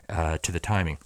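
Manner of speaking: winded, running out of air; out of breath. Real, not acted. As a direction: talk while out of breath. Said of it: "let me catch my breath".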